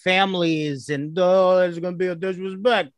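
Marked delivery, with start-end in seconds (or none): 1.2-2.9 a put-on Sopranos wiseguy tone; mafia voice. Mimicking a mafia boss to mock the Bible story. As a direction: sell it like a mob boss taking offence. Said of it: "this is a Sopranos episode".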